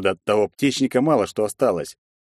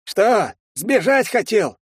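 villain voice; 11 semitones higher, slower than usual. Acted. Villain mocks the hero.

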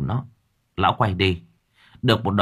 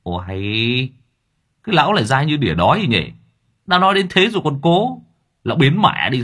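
impatient annoyance; 4 semitones higher than usual. A narrator's reading. Driver Hà losing patience with the beggar, irritated. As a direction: snap at the pest to go away. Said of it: "bực mình, thiếu kiên nhẫn".

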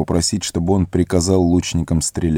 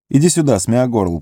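high, urgent calling; 5 semitones higher than usual. Acted. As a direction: warn him, urgently. Фродо настойчиво зовёт. (Фродо зовёт Горлума, настойчиво и тревожно)

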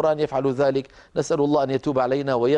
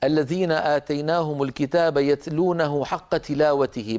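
recitation. Shown as a demonstration. Teacher recites verse.

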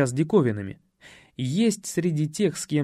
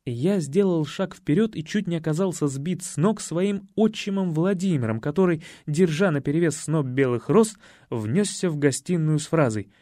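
ordinary delivery

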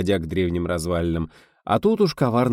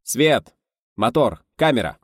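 loud, higher commands, each falling; shouted cues; 5 semitones higher, 5 dB louder, slower than usual. A narrator's reading. Director calling the crew to start, shouted cues. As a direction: fire off the cues one by one.

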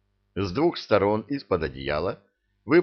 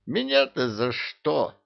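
higher, slow, plaintive squeak; a small house spirit squealing in protest; жалобно пискнул; 6 semitones higher than usual. A narrator's reading. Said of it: "пискнул Гена".

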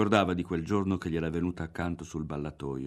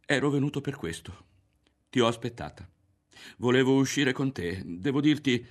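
stammering plea; 6 semitones higher, 4 dB louder than usual. Acted. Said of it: "balbettò lui".

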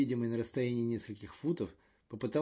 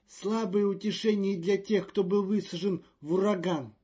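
croaking over helmet radio; high croak through a helmet speaker; inside a space helmet; 8 semitones higher, 6 dB louder than usual. A narrator's reading. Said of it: "прокаркал голос Маньяна в шлеме Ретифа".

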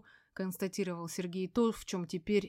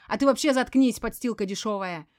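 a loud, higher, rude snap; snapping; 3 semitones higher, 9 dB louder than usual. A narrator's reading. Veronika snaps at the narrator to shut up, loud and rude. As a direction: bite the intruder's head off. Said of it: "резко огрызнулась Беспалова".

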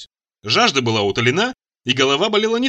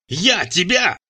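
breathless angry shout; 6 semitones higher, much slower than usual. A narrator's reading. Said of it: "задыхаясь от гнева, крикнул я".

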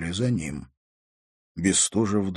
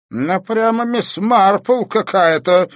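exhaled; 13 semitones higher, 9 dB louder, slower than usual. Acted. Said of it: "выдохнул он".

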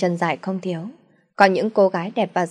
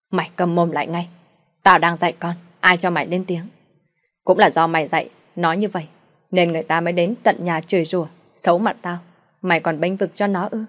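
angry father; 3 dB louder than usual. Acted. Father silences his wife.

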